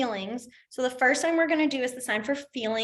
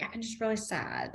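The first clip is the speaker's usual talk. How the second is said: sad example; 8 dB quieter than usual. Shown as a demonstration.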